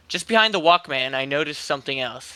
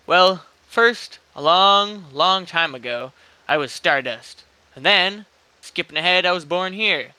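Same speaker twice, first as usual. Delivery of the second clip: lightly hammed-up grand storyteller; 4 semitones higher, 5 dB louder than usual. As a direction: spin it like a lofty tale. The man's grand tale voiced.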